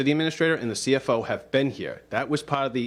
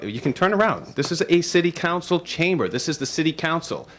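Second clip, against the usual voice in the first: stern rising rebuke, higher pitch; calm turning angry; 5 semitones higher than usual. Real, not acted. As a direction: scold the mayor, voice climbing. President rebukes mayor walking in.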